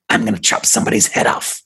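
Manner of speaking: hushed, breathy threat from the spirit; creepy spirit voice. Acted. Spirit threatens investigator, hushed creepy whisper. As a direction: whisper it like something inhuman. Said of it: "that voice came from her".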